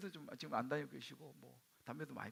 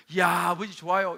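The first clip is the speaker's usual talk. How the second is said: loud, exaggerated cheer to a father; big, put-on enthusiasm; outward delight; 15 dB louder than usual. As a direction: exclaim approval at full voice. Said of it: "이렇게 이야기했지만 속으로".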